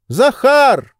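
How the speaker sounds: sharp, high, loud call of the name; shouting a name. A narrator's reading. Oblomov calling his servant Zakhar, a high loud shout. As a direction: call the servant in from the next room. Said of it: "крикнул Обломов".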